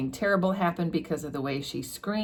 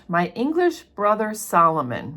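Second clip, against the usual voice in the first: mildly mournful, slightly raised pitch; 4 semitones higher, 3 dB louder than usual. Acted. Sister lamenting her brother, mildly mournful. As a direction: read with understated lament. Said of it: "mourned Miss Pross".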